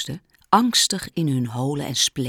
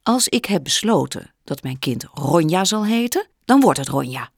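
calm and stern; 3 semitones higher, 4 dB louder than usual. Acted. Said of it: "kalm en streng".

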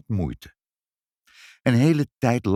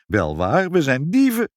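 wailing; 5 semitones higher, 4 dB louder than usual. A narrator's reading. Father contradicting mother over being thieves, wailing. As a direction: lament climbing high and loud. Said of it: "jammerde vader".

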